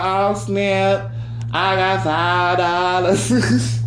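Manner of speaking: high, slow, thrilled over five dollars; over-the-top excitement. Retold or imitated. To friends, thrilled to find five dollars, mock excited. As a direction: savour every word like a jackpot. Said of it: "You be like".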